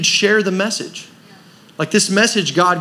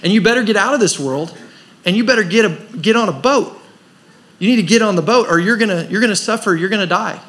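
louder, higher pleading warning of the coming flood; urgent warning; 5 semitones higher, 4 dB louder than usual. Retold or imitated. Noah preaching to the crowd, louder urgent warning. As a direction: press the crowd hard to get on the boat. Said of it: "This is his message".

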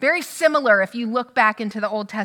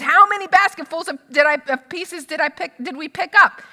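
exasperated question; 4 semitones higher, 4 dB louder than usual. Retold or imitated. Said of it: "and he says".

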